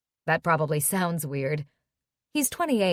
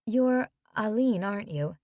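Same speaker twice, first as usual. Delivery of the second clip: put-on French accent. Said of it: "she has a French accent".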